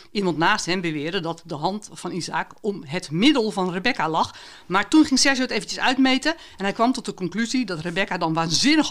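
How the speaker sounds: author reads her own fragment aloud, steady and expressive; story reading. Acted. Author reading her book excerpt to podcast hosts, expressive narration. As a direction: read the passage to the listeners like a storyteller.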